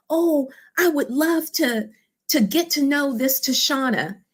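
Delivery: lightly acted yearning; longing gush. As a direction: voice a passenger dreaming of meeting her. Ladies wishing to meet Tashana.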